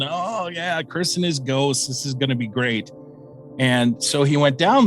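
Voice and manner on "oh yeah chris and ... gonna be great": retold mock enthusiasm; mocking naysayer. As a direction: imitate a scoffing coworker with mild sarcasm. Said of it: "one of the naysayers at work and laughing".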